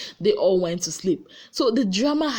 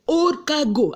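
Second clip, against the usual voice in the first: sassy insult; 7 semitones higher, 3 dB louder, slower than usual. Retold or imitated. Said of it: "Kesha now said".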